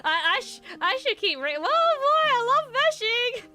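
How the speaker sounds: laughing. Real, not acted. Laughing while rigging on stream.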